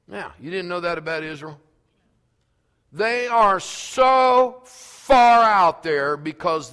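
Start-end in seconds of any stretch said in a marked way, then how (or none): 2.9-6.7 emphatic exclaim. Acted. Preacher exclaiming about Israel.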